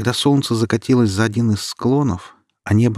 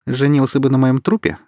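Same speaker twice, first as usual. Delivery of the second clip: scornful snort; 5 semitones higher, 5 dB louder than usual. A narrator's reading. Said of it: "фыркнула Алина".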